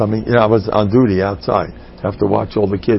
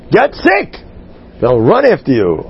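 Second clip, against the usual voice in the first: high, loud mock urging; sarcastic advice; 4 semitones higher, 3 dB louder than usual. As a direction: push it like a silly tip.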